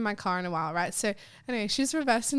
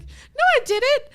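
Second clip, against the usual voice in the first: much higher, slow, squeaky mock denial; imitating mum's denial; 8 dB louder, slower than usual. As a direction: play mum insisting she didn't, drawn out. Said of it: "She's like".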